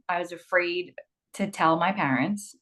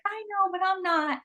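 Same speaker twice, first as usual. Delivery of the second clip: tearful protest; 12 semitones higher than usual. Retold or imitated. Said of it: "I'm like".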